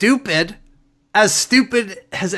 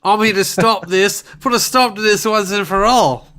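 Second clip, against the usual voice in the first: hostile stranger. Pretend. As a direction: bark at the kid like a bully.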